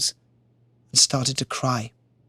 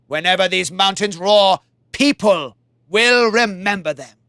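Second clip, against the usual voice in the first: a touch higher, solemn divine voice; gods' voice; 4 semitones higher than usual. Acted. Gods honoring the warrior from the sky, solemn. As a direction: pronounce it like gods. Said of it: "they said".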